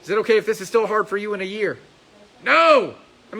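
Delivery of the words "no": loud, higher, firm no; coach's loud firm no; emphatic no. Real, not acted. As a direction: shut the idea down hard. Coach answers own question firmly.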